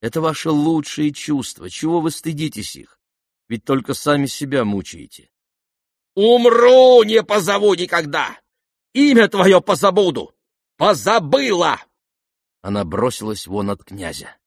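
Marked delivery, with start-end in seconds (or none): 6.1-11.8 very high, loud wounded yell; furious shout. Acted. Lizaveta vowing never to call him, shouting. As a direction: fling the vow at him as she storms off.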